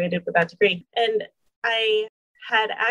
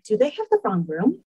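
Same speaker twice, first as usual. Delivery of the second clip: stunned disbelief. Retold or imitated. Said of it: "and being like".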